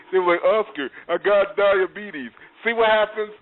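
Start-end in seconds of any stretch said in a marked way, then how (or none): 0.4-2.3 slow, stretched teasing copy; kids' mock impression. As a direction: playground mockery of the phrase. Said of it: "I even had my kids doing it".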